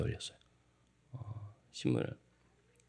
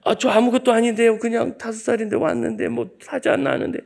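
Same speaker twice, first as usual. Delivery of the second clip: put-on scared child; 12 semitones higher, 5 dB louder than usual. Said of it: "너무 무서워가지고".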